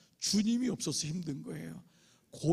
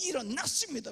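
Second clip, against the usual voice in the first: mock revival preacher; 8 semitones higher than usual. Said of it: "막".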